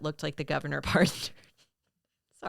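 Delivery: real laugh breaking up the line; breaking into laughter. Real, not acted. Co-host reading out a joke about a perm, cracking up. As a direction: try to get it out, laughter taking over at the end. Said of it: "couldn't get through it without laughing".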